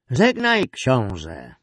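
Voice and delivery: high, loud call falling away; loud farewell. A narrator's reading. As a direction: proclaim a farewell to a doomed prince. Executioner's formal farewell to prince.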